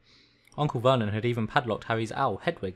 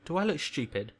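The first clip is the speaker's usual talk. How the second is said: mild snarl, pitched up; 5 semitones higher than usual. Acted. Uncle answering his nephew, understated snarl. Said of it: "snarled Uncle Vernon".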